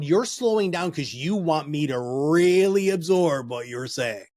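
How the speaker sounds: slow, deliberate demo pace; slow down so they absorb it. Shown as a demonstration. Coach demonstrating slow pace to advisors. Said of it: "And if you're slowing down".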